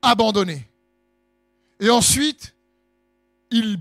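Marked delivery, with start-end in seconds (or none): 0.0-0.7 high, loud, slow drawn-out lament; anguished cry. Acted. Jesus on the cross asking why he is forsaken, slow loud anguished cry. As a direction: wail it out to God, stretching every word. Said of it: "ayant poussé un grand cri".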